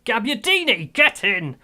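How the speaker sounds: loud, high shout of joy; goal celebration. Real, not acted. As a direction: punch the air as it goes in.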